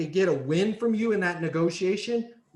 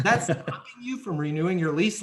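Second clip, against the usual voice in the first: laughing; 2 semitones higher than usual. Shown as a demonstration. Laughing while demoing the question.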